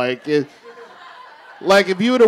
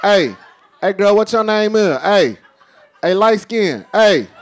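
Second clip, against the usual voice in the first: catcalling. Acted. Men calling out to a woman.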